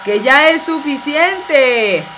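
firm call over a loud hair dryer. Acted. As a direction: make yourself heard over the dryer. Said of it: "pero no me grites".

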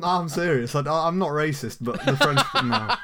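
giggling while insisting, voice climbing on no; laughing rant. Real, not acted.

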